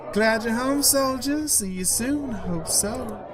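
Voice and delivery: put-on high-pitched voice for the dancing girl; female voice. Dancing girl calls to the returning soldier, high female voice. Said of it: "apologize for any female voices".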